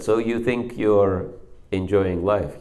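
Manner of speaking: retold anger, understated; retold angry challenge. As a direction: needle him about his so-called enjoyment. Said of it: "I became angry with him".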